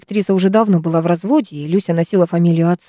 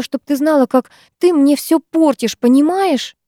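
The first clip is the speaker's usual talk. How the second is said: higher, tearful and despairing; despairing tears; 7 semitones higher than usual. A narrator's reading. Lyusya confesses her despair to Vera, tearful. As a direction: sob it out, voice pitched up high. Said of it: "глотала слёзы девчонка".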